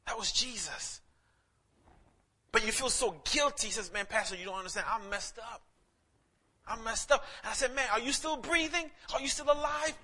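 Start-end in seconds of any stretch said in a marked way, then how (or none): 2.5-10.0 rising to preaching. Real, not acted.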